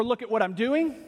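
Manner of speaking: proud "Look at what I'm doing", stress on doing; boasting. Retold or imitated. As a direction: brag about your own work. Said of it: "the writer boasting in".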